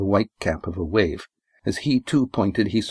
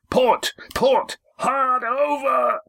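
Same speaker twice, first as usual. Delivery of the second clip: high, desperate shouted order, last words drawn out; desperate loud call; much slower than usual. A narrator's reading. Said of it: "voice came to them loud, clear, desperate".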